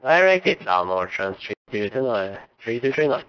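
loud, fast radio-band readback; crackly cockpit radio transmission; air traffic control radio. Real, not acted. Pilot readback over radio.

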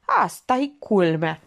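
slow, mildly acted driver's grumble; grated exasperation. A narrator's reading. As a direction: grind it out slowly, restrained. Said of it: "scrâșni șoferul". (scrâșnit încet, cu năduf reținut)

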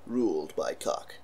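low, slow trailer voice; deep trailer narration, lightly done; horror trailer voice. Shown as a demonstration. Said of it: "movie trailer voiceover".

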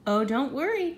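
high, chirpy creature reassurance; chirruped. A narrator's reading. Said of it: "chirruped the wobbler".

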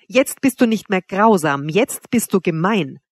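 slow, deliberate weight on 'grausam' and 'gemein'; each word sharply stressed. A narrator's reading. Narrator as the man accusing Wanda, every word of 'jetzt bist du gemein' sharply stressed. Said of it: "jedes Wort scharf und herb betonend".

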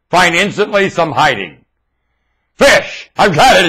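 triumphant reveal of the acronym; eureka. Shown as a demonstration. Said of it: "It's an acronym!".

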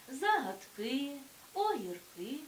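загадки, огірки with the final -КИ stressed and drawn out; stress on endings. Shown as a demonstration. Teacher showing plural stress, загадки and огірки stressed on final -КИ. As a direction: slowly land on the last syllable of загадки, огірки. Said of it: "наголос на закінченні".

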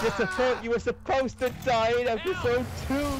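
high-pitched playful fury; mock rage. Gamer telling character he should have died, high mock rage. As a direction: rant up high at a villain.

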